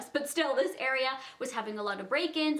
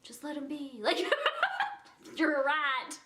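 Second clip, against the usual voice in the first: devil on her shoulder; 2 semitones higher than usual. Retold or imitated. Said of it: "an angel and a devil on each shoulder".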